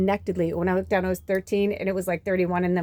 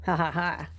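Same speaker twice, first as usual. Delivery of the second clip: dry chuckle; 3 semitones lower, 4 dB quieter than usual. Real, not acted. Spoken laugh at Zeus line.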